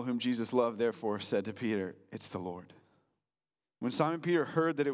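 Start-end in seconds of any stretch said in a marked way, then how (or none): 2.1-2.7 much softer, awestruck hush; near-whisper recognition. Retold or imitated. Disciple telling Peter the truth, hushed almost whisper. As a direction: let it fall away to almost nothing.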